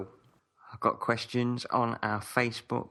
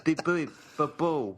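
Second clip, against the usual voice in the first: high droid beeping; R2-D2 beeps; 7 semitones higher than usual. Pretend. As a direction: bleep like a robot.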